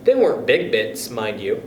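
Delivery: lively read-aloud storytelling voice; story narration. A narrator's reading. Narrator reading the chapter to young listeners, lively storytelling. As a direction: tell it like a bedtime story to kids.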